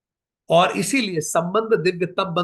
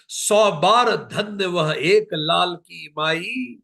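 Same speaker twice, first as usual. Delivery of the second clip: very slow, reverent declamation; solemn devotional recital; slow verse recitation; much slower than usual. Acted. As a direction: linger over praise of the mother. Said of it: "वो कहते हैं राम जी".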